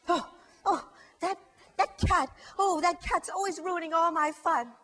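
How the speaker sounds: mild whiny upset mouse; a touch of teary mouse. Acted. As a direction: fret as the little mouse.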